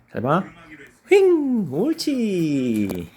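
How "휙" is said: sharp high call; throw call. Real, not acted. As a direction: shout as you throw. Throwing ball for dog.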